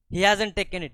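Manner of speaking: high, loud cry; child's scream. Acted. Leela screams that the boy is innocent. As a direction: cry it out in protest. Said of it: "Leela scream".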